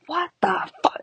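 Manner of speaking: high squeaky shocked cry. Retold or imitated. Realizing she drank bleach, high shocked squeak. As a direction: squeal it in disbelief. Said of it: "And I'm like".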